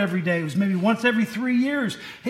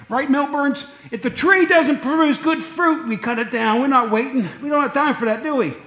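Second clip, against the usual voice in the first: playful emphatic preaching; 6 semitones higher, 3 dB louder than usual. Real, not acted. Preacher teasing congregation loudly.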